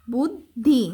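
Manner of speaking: বুদ্ধি split as "bud... dhi"; careful teacher's "bud-dhi"; sounded-out conjunct. Shown as a demonstration. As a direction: say বুদ্ধি holding the double d. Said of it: "দুটা হচ্ছে যুক্ত হয়ে".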